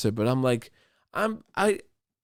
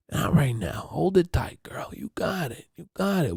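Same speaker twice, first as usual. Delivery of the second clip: half-whispered pep talk; coaching her to hold on; 4 semitones higher than usual. Retold or imitated. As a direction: hush her gently, hold it together. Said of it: "I'm like".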